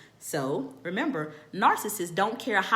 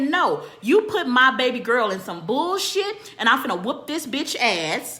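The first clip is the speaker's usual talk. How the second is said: angry retort; 3 semitones higher, 6 dB louder than usual. Retold or imitated. She yells back at husband.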